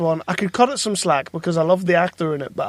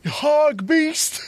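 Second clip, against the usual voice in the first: Keanu impression; 9 semitones higher, much slower than usual. Quoting Keanu line from podcast.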